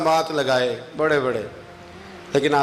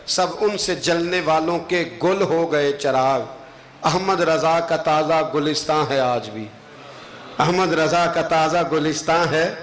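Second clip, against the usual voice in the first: devotional verse recitation. Acted. Closes with a recited couplet.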